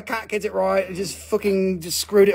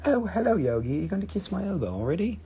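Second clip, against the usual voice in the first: pet talk. Real, not acted. Talks to pet Yogi.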